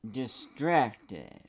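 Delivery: drawn-out dramatic title call on "Distracted."; video game announcer. Vlogger turning "Distracted." into a game title call. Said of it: "Like it's some kind of video game title".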